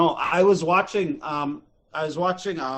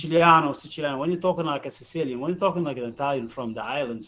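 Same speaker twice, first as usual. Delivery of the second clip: put-on Sicilian Italian accent. Shown as a demonstration. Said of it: "that's like fucking Sicilian now".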